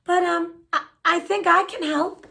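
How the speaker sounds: put-on mild sweet old lady voice; bright old lady. A narrator's reading. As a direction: politely chirp it like a kind granny. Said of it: "she said brightly".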